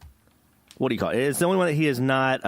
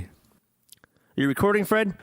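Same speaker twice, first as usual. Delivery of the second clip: whisper; 5 semitones higher, much slower than usual. Real, not acted. Checking the recording quietly.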